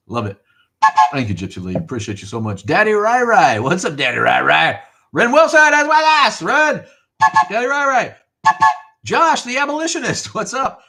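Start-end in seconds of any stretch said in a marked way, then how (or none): 2.6-10.8 high, loud, stretched greeting calls; sing-song name calls. Real, not acted. Streamer calling out viewers' names, loud high sing-song. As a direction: call each viewer's name out high and bright.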